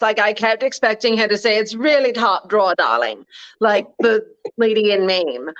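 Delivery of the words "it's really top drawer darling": a hammed-up Katharine Hepburn-style posh accent; posh mid-Atlantic drawl. Mocking the wealthy woman's posh mid-Atlantic accent. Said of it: "she literally talked like this".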